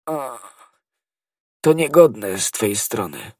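sobbing groan then slow words; a dying man's anguish; pained cry. Acted. Poisoned servant reproaching D'Artagnan in agony.

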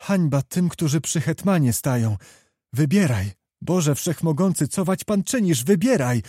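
put-on young noblewoman pleading with her beloved; young woman's demand. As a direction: press him to choose, passionately. Young woman confronts Kmicic, passionately.

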